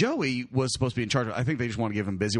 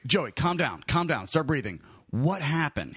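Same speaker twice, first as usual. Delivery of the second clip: measured, even reassurance after the panic; calming down; 2 semitones higher than usual. Retold or imitated. Teller settling the hysterical keeper, retold calming voice. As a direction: talk a frantic man down, steady voice.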